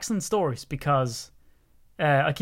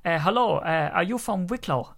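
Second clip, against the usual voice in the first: lightly imitated Chinese accent, raised pitch; a hint of a Chinese accent, pitched up; imitated Asian accent; 4 semitones higher than usual. Chinese teammate asking in training, imitated Asian accent. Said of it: "he had a really strong Asian tone to his voice".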